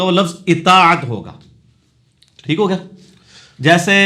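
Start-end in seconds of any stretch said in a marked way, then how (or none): 0.5-1.0 اطاعت opening on short i, middle syllable stretched; slow, deliberate i-TAA-at for اطاعت; corrected pronunciation. Shown as a demonstration. Teacher ruling out the a-form, corrected pronunciation. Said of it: "پھر اطاعت نہیں ہوگا".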